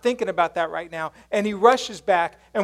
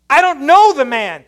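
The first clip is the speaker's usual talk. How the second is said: louder, higher, insistent denial; heated denial; 7 semitones higher, 12 dB louder than usual. Retold or imitated. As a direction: push him away with the denial. Peter's second, heated denial.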